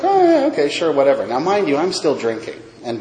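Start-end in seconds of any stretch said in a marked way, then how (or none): 0.0-1.2 high-pitched "oh", then casual; offhand agreement. Retold or imitated. Agreeing to the therapist's invitation, offhand. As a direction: brush it off with a lifted, easy yes.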